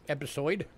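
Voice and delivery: episode, rising; episode said again. Shown as a demonstration. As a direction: episode re-said with a questioning lift. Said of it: "my New York accent coming through there".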